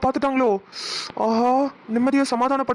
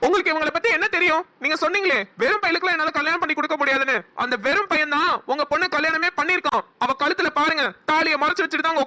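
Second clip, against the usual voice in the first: higher, heated rebuke; angry outburst; 3 semitones higher than usual. Acted. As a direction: defend him, indignant and raised. Son furious at insult to friend.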